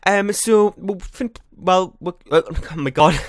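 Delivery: slightly winded, talking in rushes; a bit breathless from rushing the words; out of breath. Real, not acted. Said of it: "I'm kinda getting out of breath".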